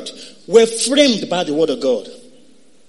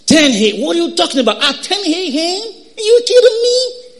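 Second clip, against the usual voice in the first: indignant, climbing higher to the end; mock incredulous; 6 semitones higher than usual. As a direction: protest rising to a high-pitched question. Acts out incredulous late sleeper.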